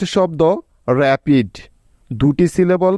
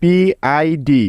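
spelled out slowly; much slower than usual. Shown as a demonstration.

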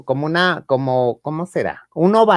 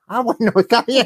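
laughing reply; 7 semitones higher than usual. Retold or imitated. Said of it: "retold own reply".

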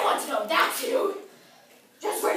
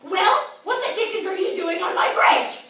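furious, high, very loud demand; angry troll; 16 dB louder than usual. Acted. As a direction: roar the question as a mean old troll. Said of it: "the mean old troll asked angrily".

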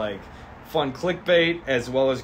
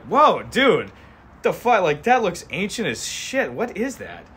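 shocked cops; 6 semitones higher, 4 dB louder, slower than usual. Acted. Cops gawk at ancient scroll.

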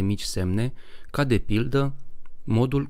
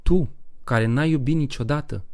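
mocking taunt; 5 semitones higher than usual. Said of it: "Femeia blondă râse obscen".

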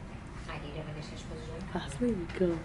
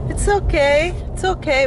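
high, soothing pet talk; reassuring the dog; 6 semitones higher than usual. Real, not acted. Owner to nervous dog at arrival, high soothing reassurance.

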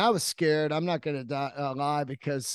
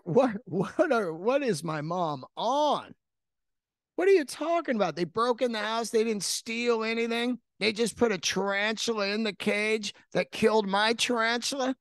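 baffled disbelief; 6 semitones higher than usual. Retold or imitated. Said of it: "I'm like".

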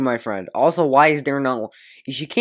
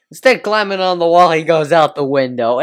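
mock excited; 2 semitones higher, 6 dB louder than usual. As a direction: ham up the line excitedly. Mocking the video's line.

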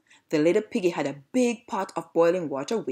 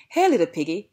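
lightly shouted greeting, a little louder; 4 dB louder than usual. Acted. Big bad dog calling out to the little piggy, shouted. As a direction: call out in a mild shout. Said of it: "he shouted".

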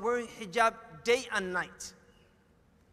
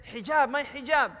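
louder imitation of a bawling toddler; mock toddler's insistent cry; retold bawling child; 3 semitones higher, 7 dB louder than usual. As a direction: mildly imitate a child wailing for something. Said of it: "she's bawling".

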